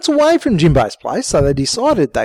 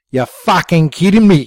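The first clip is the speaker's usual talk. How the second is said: yelling; 3 dB louder than usual. Acted. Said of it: "she yelled at Jimbo".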